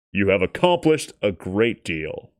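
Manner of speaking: a hint of a grave elderly shopkeeper; old Chinese man. A narrator's reading. An old shopkeeper praising the creature, lightly voiced and grave. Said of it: "the Chinese man said".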